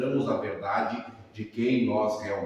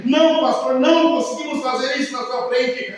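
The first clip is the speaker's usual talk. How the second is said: retold weeping plea; 12 semitones higher, 8 dB louder than usual. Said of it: "os dois chorando copiosamente".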